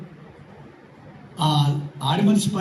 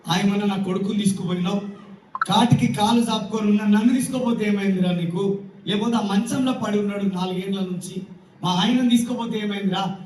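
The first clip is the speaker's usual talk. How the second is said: lamenting mother. Retold or imitated. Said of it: "వాళ్ళ అమ్మ ఏడుస్తుంది".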